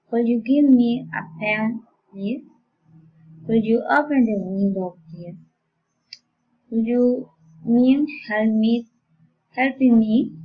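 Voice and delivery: polite requests, voice lifting at the end; rising request intonation. Shown as a demonstration. Teacher modelling requests for learners, rising intonation. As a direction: lift "please" and "me" as you ask. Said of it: "Rescue rising intonation".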